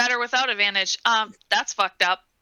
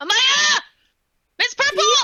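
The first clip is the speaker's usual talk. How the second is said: scared, fearful shouting, higher; 4 dB louder than usual. In character, calling out to companions after being poked: yelling in fear. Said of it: "Why are you yelling?".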